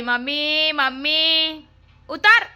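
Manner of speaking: high, loud yelling for mom; child's yell. Retold or imitated. Daughter stuck up high yelling for mother to get down. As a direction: shout like a stuck kid. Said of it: "બૂમો પાડવાની".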